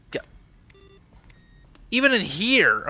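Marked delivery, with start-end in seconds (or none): 1.9-2.8 high, loud surprised call; surprised exclaim. Real, not acted. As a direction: blurt it out in surprise. Surprised discovery in museum.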